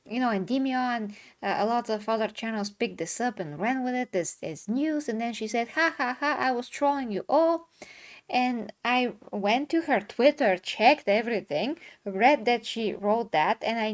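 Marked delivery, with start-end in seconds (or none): 5.7-7.7 higher-pitched spoken ha-ha taunt; mock gloating. Troll revealing the prank to everyone, mock gloating. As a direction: imitate a troll crowing over the prank.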